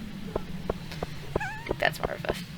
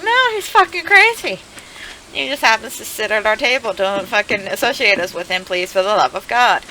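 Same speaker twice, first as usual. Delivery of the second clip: high, frantic pleading at first; frantic high protest; panicked denial; 3 semitones higher than usual. Retold or imitated. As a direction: beg the teacher to believe you. Kids denying to teacher, panicked.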